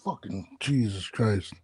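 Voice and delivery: ordinary talk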